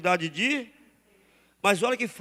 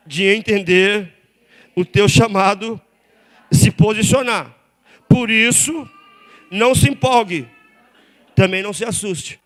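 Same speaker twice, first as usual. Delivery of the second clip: forceful preaching; 10 dB louder than usual. Acted. Pastor urging calm in the calling, preached loud. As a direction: press each word on them.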